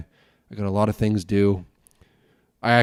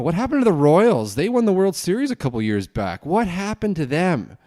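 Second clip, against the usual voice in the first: incredulous question; 9 semitones higher, 5 dB louder than usual. Real, not acted. Puzzled by the Royals' decline.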